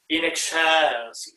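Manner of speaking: stretched, leaned-on middle syllable of "excelsis"; accent on second beat. Shown as a demonstration. Conductor showing choir the accent, second beat of "excelsis" stressed. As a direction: lean into the CEL of "excelsis". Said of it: "the accent is on the second beat".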